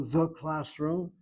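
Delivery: "the" slowly emphasized before classroom; stress on THE. Shown as a demonstration. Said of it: "The definite article".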